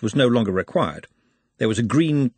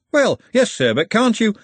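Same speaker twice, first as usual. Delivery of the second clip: high, louder protest; pleading captain; 11 semitones higher, 5 dB louder than usual. A narrator's reading. Hoggett pleading with the referee, high and protesting. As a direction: start a plea that gets cut off.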